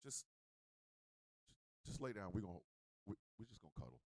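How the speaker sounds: low, quiet and deflated; mock disheartened. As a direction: play the turned-off lover, voice sunk low. Acts out turned-off lover in bed.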